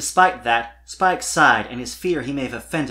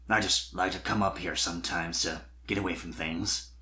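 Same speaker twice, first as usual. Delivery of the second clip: put-on young dragon voice; 6 semitones lower, 6 dB quieter than usual. A narrator's reading. Spike voiced lower.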